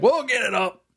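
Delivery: high-pitched imitation of a confident father; dismissive dad impression.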